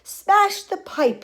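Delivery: high, loud drawn-out order; yelling. A narrator's reading. Father desperate to free his son, yelling. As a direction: yell the order slowly and forcefully. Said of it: "yelled Mister Gloop".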